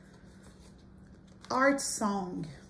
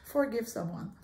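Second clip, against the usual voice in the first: English accent. Shown as a demonstration. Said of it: "Je vais prendre mon accent anglais". (avec un accent anglais)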